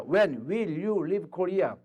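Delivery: slow, clear English phrasing; slow model answer. Shown as a demonstration. Teacher acting out answering an American friend slowly. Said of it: "너 언제 한국 올 떠날 거야".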